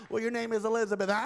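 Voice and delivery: high, fast dummy voice; chirpy ventriloquist patter; puppet voice. Acted. Ventriloquist voicing Elizabeth's dummy, high and fast.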